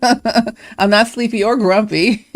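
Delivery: giggling through the words; slow laughing denial. Real, not acted. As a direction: say it with a laugh, slowly. Laughing while listing dwarfs.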